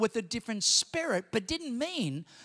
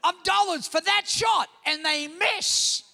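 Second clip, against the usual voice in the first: imitating Sharon; 8 semitones higher, 4 dB louder, slower than usual. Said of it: "and she goes".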